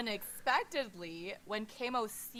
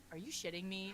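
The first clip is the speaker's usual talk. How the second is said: deadpan; 4 dB quieter than usual. Acted. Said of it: "says with a deadpan expression".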